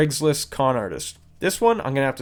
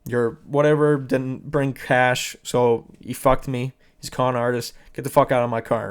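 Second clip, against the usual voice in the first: angry yell. Retold or imitated. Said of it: "and he says".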